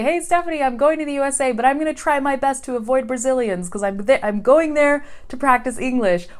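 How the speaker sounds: a hint of an excited learner; imitating a student. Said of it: "they say".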